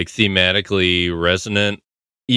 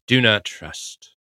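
slow deliberate; slower than usual. Retold or imitated. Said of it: "she just says".

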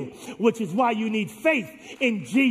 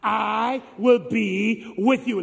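slow, firm refrain for the crowd to echo; slow call-and-response; 5 dB louder, much slower than usual. Shown as a demonstration. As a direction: lead the congregation slowly. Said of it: "You say it with me now".

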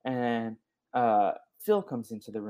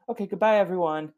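chirpy goodbye; 8 semitones higher, 5 dB louder, faster than usual. Retold or imitated. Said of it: "And she's like".

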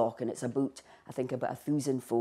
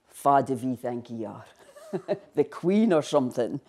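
mock Buckie Doric; 4 dB louder than usual. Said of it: "people would be like".

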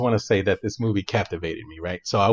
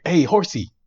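high, louder mock call to a horse; calling out to the runaway horse, mock yell; imitating a yell; 6 semitones higher, 4 dB louder than usual. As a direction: call the horse like Zorro, half-joking. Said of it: "he's yelling at the horse".

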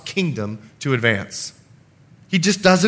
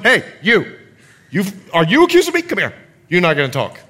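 bold challenge; faster than usual. Retold or imitated. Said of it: "He says to them".

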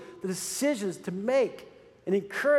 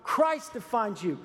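preacher voicing the tempter's call, raised and urgent; mock voice from Satan; 6 semitones higher than usual. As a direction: push it out like a rising call. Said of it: "Don't let Satan come along and say".

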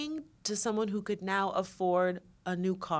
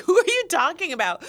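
1 confused friends; 8 semitones higher, 6 dB louder, faster than usual. Retold or imitated. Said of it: "they're always like".

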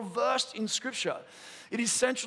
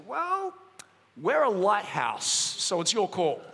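dry punchline; slower than usual. Retold or imitated. The lighthouse answering the commander, dry and unhurried. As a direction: let the lighthouse shrug it off slowly. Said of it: "The voice came back and said".

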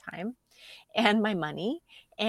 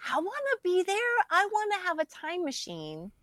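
high-pitched wistful wail; yearning; 10 semitones higher than usual. Retold or imitated. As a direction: whine with longing to have been there. Wistful retelling of a missed event.

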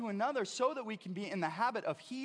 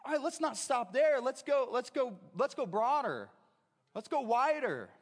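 louder, urgent call to go further; rising exhortation; 3 semitones higher, 4 dB louder than usual. Acted. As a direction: push the crowd onward, building. Preacher voicing James' exhortation.

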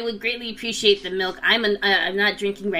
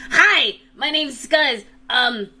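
goblin voice; 5 semitones higher than usual. Acted. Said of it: "he goes".

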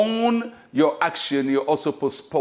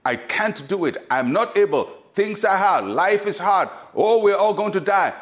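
mock voice of unbelief; 4 semitones higher than usual. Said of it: "The voice of unbelief is very infectious".

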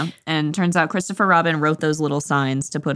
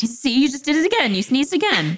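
high-pitched mock indignation; excited accusation; 8 semitones higher than usual. Pooh catching Owl sneezing again, high excited accusation. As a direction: pipe up high, catching him out.

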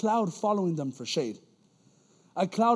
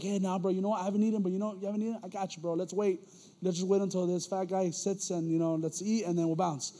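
softer, easygoing buddy talk; mock considerate friend; 2 semitones lower, 7 dB quieter, faster than usual. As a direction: play the accommodating pal, keeping it soft. Acting out considerate friend, casual aside.

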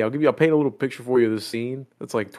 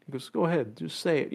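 encouraging; 6 dB quieter than usual. Retold or imitated. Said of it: "he's giving all this encouragement".

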